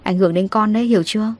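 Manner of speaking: a light touch of a husband's comfort; reassuring husband. Acted. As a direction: gently settle her fears. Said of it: "Cảnh Long trấn an".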